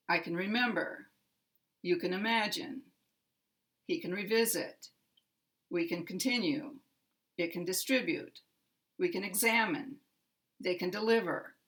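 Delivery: quick model sentences, middle syllable of "remember" strongest, falling end; middle-syllable stress. Shown as a demonstration. Teacher models three-syllable verbs, middle-syllable stress on "remember", "revisit", "examine". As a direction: hit the middle of "imagine", "continue", "deliver", the rest light. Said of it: "middle syllable is the primary".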